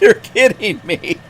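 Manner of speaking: high, loud, drawn-out disbelief; retold stunned reaction; disbelieving. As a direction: play up the incredulity. Acting out his disbelief at trucker.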